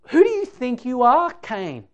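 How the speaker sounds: acted indignant challenge, high then dropping; mock a scolding, hit the opening hard; all guns blazing. What God doesn't say to Cain, mock indignation. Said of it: "doesn't come all guns blazing".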